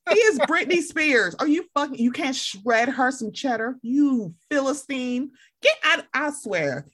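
high, slow scolding tirade; mock rant. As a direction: scold him like a philistine chef. Ranting at Jamie Spears' grits.

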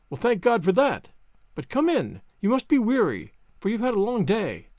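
a hint of a relieved, hospitable lady; lightly voiced anxious wife. Wife welcoming weary men in, lightly voiced relief.

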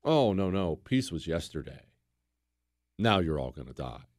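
low, unhurried retold threat; menacing Mongol reply. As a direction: voice the conquerors dismissing the peace offer with quiet menace.

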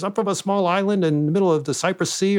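lightly imitated foreign man accent; a touch of a made-up foreign accent; Andy Kaufman. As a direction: retell it in a mild foreign man voice. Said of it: "he used that accent".

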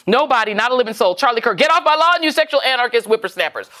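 put-on cranky old man yelling; grumpy get-off-my-lawn geezer; old prospector. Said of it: "This is Brooklyn Dad".

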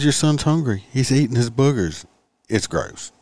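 high, pointed scolding; snarky lecture. Retold or imitated. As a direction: shame her, high and sharp. Retold to mother.

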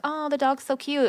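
adoring, retold; imitated cooing. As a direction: lightly mimic strangers gushing. Strangers cooing over the dog.

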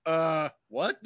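loud baffled what; surprised shout. Real, not acted. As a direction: shout it in disbelief. Retelling the crash.

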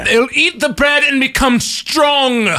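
hammy stage actor. Acted. Hammy prisoner declaiming about bread.

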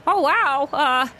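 high, hesitant pony voice; impressed Tangerine. Acted. Tangerine watches Omen take the card, high and shyly impressed. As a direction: marvel timidly, rising at the end.

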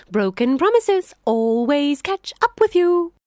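gloating jackal. Acted. Jackal gloating at the trapped lion, high and triumphant. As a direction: crow over the trapped lion.

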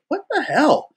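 high-pitched mock disbelief; retold alarm. Actor warned by his agent, comic alarm.

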